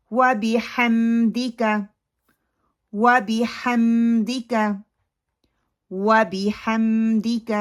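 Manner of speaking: وَبِحَمْدِكَ slow, with clear "dika" and held m; careful short i in وَبِحَمْدِكَ; correct practice recitation. Shown as a demonstration. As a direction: chant وَبِحَمْدِكَ evenly for students to repeat. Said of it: "دال کی جو زیر ہے اس کو مجہول نہیں کرنا".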